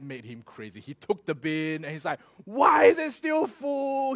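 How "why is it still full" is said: drawn-out high, loud yell; angry shout. Retold or imitated. Friend raging at his overfull dustbin, angry shout. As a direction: roar it out in exasperation, stretched long. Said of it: "he got so angry".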